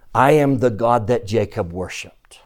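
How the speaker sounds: hushed, breathy, unvoiced reply; whispered. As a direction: whisper it like a secret revelation. Imagined answer from Jesus.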